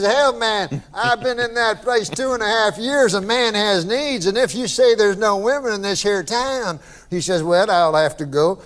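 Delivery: Southern drawl. Retold or imitated. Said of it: "I can tell by the accent".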